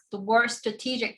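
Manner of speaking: "strategic" picked out with firm emphasis; stress on strategic. Real, not acted. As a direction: lean on the word "strategic". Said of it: "I want to emphasize".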